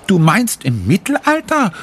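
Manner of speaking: high, amazed question; girl astonished at her mother's guess. Acted. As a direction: ask it in disbelief, pitched high. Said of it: "ruft Sophie erstaunt".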